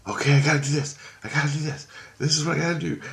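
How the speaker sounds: put-on high-pitched little girl self-talk; daughter talking to herself. Girl talks to herself outside bathroom door, high-pitched imitation. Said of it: "she's talking like that".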